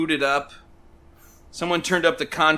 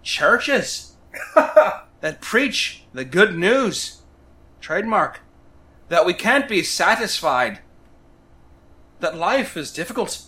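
playful Irish lilt, like Lucky the Leprechaun; Irish accent. Acted. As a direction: read the bio with a hammed-up Irish brogue. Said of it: "read it in a, uh, Irish accent".

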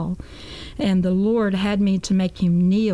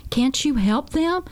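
higher, slow mimicked plea; tearful pleading; 6 semitones higher, slower than usual. Converted dealer begs her to help those in hell, pleading. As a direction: plead slowly, imitating someone in tears. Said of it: "started crying and crying and sobbing".

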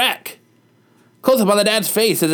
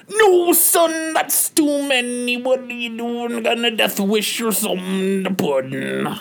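yelling dad; 3 semitones higher than usual. Acted. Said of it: "The dad screams and yells".

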